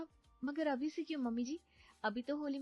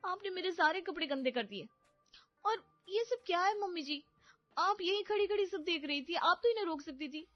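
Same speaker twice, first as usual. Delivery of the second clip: much higher, louder angry scolding; 9 semitones higher, 3 dB louder than usual. Acted. Wife scolding husband and mother-in-law over ruined clothes, angry high scolding. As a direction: give them a piece of your mind. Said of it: "अच्छा खासा सुनाकर".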